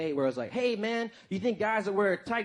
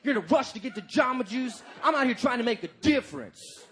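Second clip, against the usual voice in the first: mock indignant; 4 semitones higher than usual. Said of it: "He was like".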